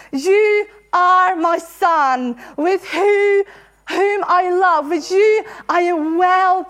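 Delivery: slow, tender voice of God; slow tender proclamation. Acted. The voice from heaven over Jesus, slow and tender. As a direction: speak it slowly like a blessing from heaven.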